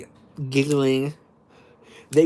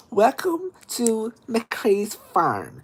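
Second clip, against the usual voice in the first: hayride announcer lady; 6 semitones higher, slower than usual. Retold or imitated. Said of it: "She's like".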